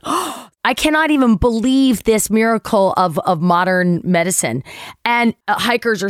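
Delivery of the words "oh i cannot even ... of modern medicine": gasping, exaggerated awe; mock amazement. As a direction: gush in mock wonder at a miracle.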